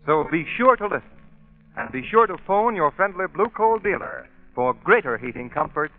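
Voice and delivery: slow, emphatic sponsor sign-off; old radio announcer. Acted. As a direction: sell it like a vintage radio ad. Announcer reads the sponsor close.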